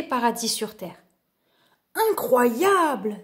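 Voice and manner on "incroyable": slow, drawn-out wonder; amazed exclamation. Acted. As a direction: marvel at the jungle, slowly. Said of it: "s'exclama Loup".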